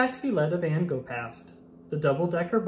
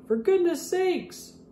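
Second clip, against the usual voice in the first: exasperated. Acted. Blue exasperated in traffic.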